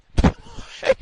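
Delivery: a squealing high laugh of disbelief; high disbelieving laugh. Real, not acted.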